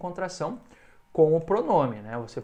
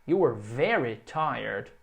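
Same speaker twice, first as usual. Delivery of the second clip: slow statement; 3 semitones lower, slower than usual. Shown as a demonstration. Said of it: "frase afirmativa".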